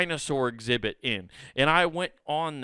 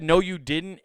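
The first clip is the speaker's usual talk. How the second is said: jealous denial; 3 semitones higher, 4 dB louder than usual. Retold or imitated. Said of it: "I got mad and jealous".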